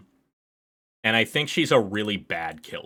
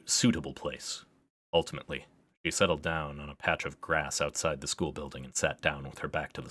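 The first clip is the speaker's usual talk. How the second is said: story narration. Acted. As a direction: read the passage like a storyteller. Reads game text aloud.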